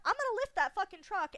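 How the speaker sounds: loud, high, cocky boast; bold alter voice. Retold or imitated. Alter boasting to herself, loud and high. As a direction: brag like you could lift anything. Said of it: "she thinks she can lift a truck".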